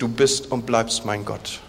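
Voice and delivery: "du bist und bleibst mein Gott" said slowly and softly, each word weighted; stress on bleibst. Shown as a demonstration. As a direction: lean into "bleibst", slow and quiet. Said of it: "Aber die Betonung ist".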